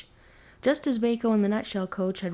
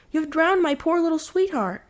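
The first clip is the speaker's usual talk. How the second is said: higher and louder, grief-stricken accusation; anguished cry; 9 semitones higher, 5 dB louder than usual. Acted. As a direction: cry it out in despair. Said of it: "Vaco cried".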